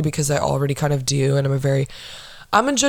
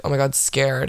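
low, deadpan mock fear; dry delivery of a running joke; 4 semitones lower than usual. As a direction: toss it off dryly, lower and understated. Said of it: "very dry".

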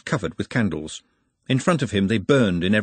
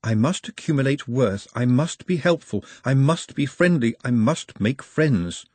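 higher-pitched self-reminding mantra; earnest Nutt reciting; 4 semitones higher than usual. Acted. Nutt repeats his rules to himself, earnestly reciting. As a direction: recite each rule in turn, slowing on the last.

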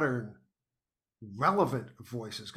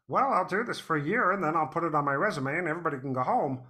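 put-on retelling an old plan through laughter, a bit quick; laughing self-quote; 3 semitones higher, 4 dB louder, faster than usual. Host recalls his early podcast plan, laughing. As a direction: laugh through your own past naive thought. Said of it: "I thought".

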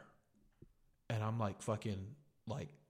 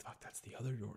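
hushed alarm; 7 dB quieter than usual. Retold or imitated. Scared reaction to intruder, retold.

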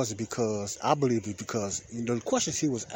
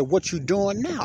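high, louder sarcastic question; 10 semitones higher, 5 dB louder, slower than usual. Retold or imitated. Replying to "what do we do", sarcastic. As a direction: throw the question back mockingly. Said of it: "I said it in a sarcastic way".

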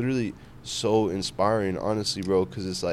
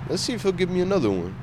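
playful preacher voice; 9 semitones higher, faster than usual. Retold or imitated. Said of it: "that boy Francis was like".

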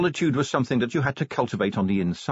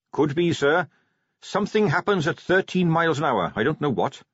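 put-on higher eager young Carrot voice; 5 semitones higher than usual.

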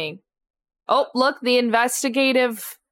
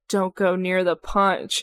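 slow ominous raspy drawl; 3 semitones lower, slower than usual. Pretend. Creepy janitor costume warning.

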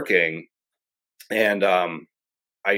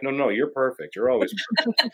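reassuring a pet; 3 semitones higher than usual. Retold or imitated. Reassuring the startled cat.

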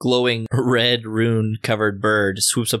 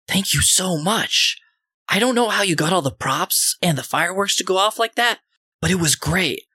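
Stitch; 9 semitones higher than usual. Acted. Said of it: "and says".

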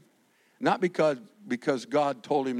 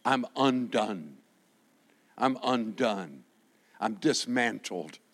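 undone; 5 semitones lower, slower than usual. Retold or imitated. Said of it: "the old King James says".

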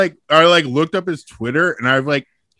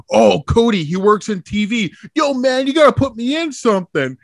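high-pitched mock pleading; imitated eager host; 8 semitones higher than usual. Host asking a TV writer for work, mock eager. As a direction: pitch climbs into an imitation of a pushy fan.

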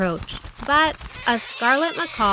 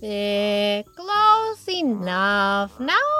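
shrugging porcupine; much slower than usual. Acted.

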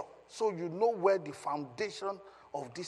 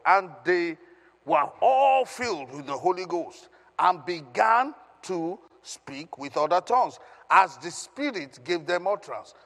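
emphatic, louder public Bible reading; ringing out key words of the verse; scripture reading aloud; 2 semitones higher, 6 dB louder than usual. Acted. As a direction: proclaim the verse to a congregation. Reads scripture aloud to congregation.

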